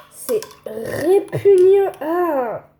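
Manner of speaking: lent, fort, plein de dégoût; dégoûté. Real, not acted. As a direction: cracher son dégoût. Goûte un mélange infect. (voix dégoûtée)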